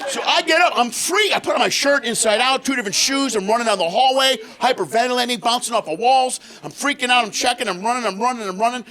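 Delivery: high, hurried panic retelling; frantic. Real, not acted. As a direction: tell it breathless and frantic.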